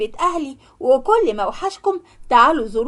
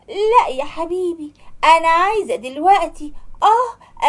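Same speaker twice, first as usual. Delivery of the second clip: slow, pleading wife's put-on sob, rising high; a mock tearful tantrum to her husband; whiny fake cry; 4 semitones higher than usual. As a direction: whimper and beg like a spoiled bride. Young wife whining for the villa.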